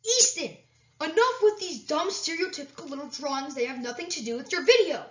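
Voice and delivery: high squeaky scolding; angry cartoon voice. Character scolds the narrator.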